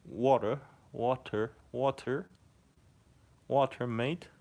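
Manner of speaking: high, rising put-on Australian accent; Aussie accent. Shown as a demonstration. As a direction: try the word in Aussie, lifting the ending. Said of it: "say water in an Aussie accent".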